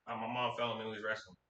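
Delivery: soft, hurried timid mumble; a touch of a frightened boy covering for mom; meek scared kid. Retold or imitated. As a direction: recite the lie fast and small. Scared kid repeating mom's lie.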